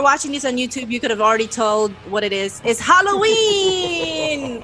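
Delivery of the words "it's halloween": excited shout. Real, not acted. Announcing the Halloween topic.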